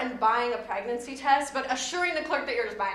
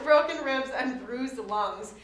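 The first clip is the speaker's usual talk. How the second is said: laughing; slower than usual. Real, not acted. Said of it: "I'm sorry for laughing".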